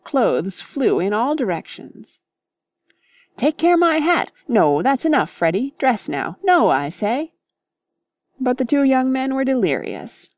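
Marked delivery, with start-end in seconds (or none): 3.4-7.3 high, louder flustered protest; fussed protest. Acted. Mister Beebe tries to stop the young men, flustered protest. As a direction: try to stop the boys.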